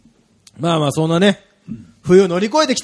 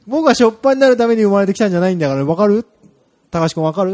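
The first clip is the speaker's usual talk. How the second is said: car's inner voice; 3 semitones higher, faster than usual. Pretend. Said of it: "心のつぶやきが聞こえた金色の鈴木パレット".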